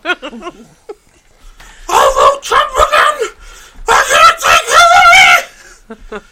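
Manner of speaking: put-on high loud cranky old man; grumbling out of touch boomer. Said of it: "did you like my boomer impression".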